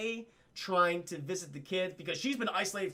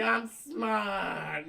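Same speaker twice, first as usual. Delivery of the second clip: pleading softly; 4 semitones higher, 3 dB louder than usual. Retold or imitated. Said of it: "Fredo's like".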